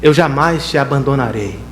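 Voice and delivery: God's promise spoken slowly and gravely; solemn divine promise. Acted.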